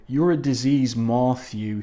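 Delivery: lightly imitated lawyer's accent, Matthew drawn as "moth, you"; mild mock lawyer accent. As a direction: put on a hint of the lawyer's odd accent. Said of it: "accent of this particular lawyer here".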